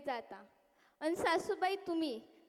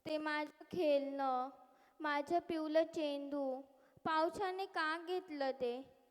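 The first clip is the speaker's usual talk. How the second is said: put-on child's plea; 5 dB quieter than usual. Child pleading with god, softly.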